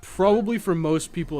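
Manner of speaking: sudden loud, high emphasis; emphatic burst. Real, not acted. Streamer argues his game ranking to chat with a loud high burst. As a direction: push the word out hard and high.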